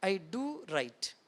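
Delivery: gentle inward echo; soft slow repeat. Shown as a demonstration. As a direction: repeat it quietly, slowly, to yourself. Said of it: "बहुत important है".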